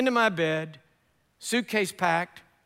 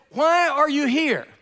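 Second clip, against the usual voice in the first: incredulous driver; 6 semitones higher, 5 dB louder, slower than usual. Retold or imitated. Taxi driver incredulous question.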